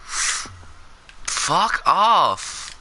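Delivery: high-pitched outburst at a scary mob; scared yell. Real, not acted. Yelling at Enderman scaring them.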